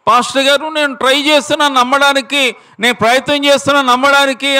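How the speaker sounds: high, thin squeak of a woman who has lost her voice; squeaky voiceless woman. Retold or imitated. Woman with throat cancer begging the pastor, high strained squeak. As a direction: imitate a sick woman straining to speak. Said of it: "కీచు స్వరంతో అరుస్తూ ఉందట".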